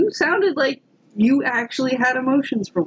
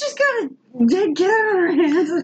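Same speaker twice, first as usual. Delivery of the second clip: mock high teary voice; 8 semitones higher than usual.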